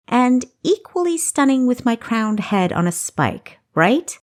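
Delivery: sarcastic retort. Acted. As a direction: throw it back at him.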